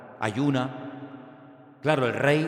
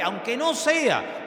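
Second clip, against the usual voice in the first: shouted slow repeat; 9 semitones higher, much slower than usual. Real, not acted.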